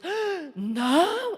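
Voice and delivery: put-on kids protesting. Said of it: "Aí eles".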